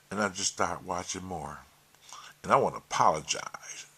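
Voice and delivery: imitating a hushed whisper; whispered apology. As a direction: whisper it like a confession. Caller's apology retold.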